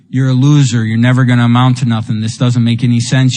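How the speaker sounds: low, fast taunting inner voice; the nagging voice at night; inner critic voice. Retold or imitated. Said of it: "the volume gets turned all the way up".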